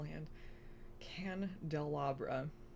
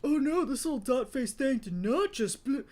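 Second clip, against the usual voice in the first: loud, higher indignant outburst; sassy outrage; 8 semitones higher, 9 dB louder than usual. A narrator's reading. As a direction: react offended, cut off mid-word. Dylan, nostrils flared, outraged in quarrel.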